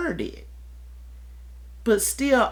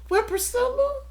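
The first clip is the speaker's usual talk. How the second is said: inner voice questioning; 12 semitones higher than usual. Retold or imitated. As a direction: ask yourself gently but pointedly. Questioning herself in another voice.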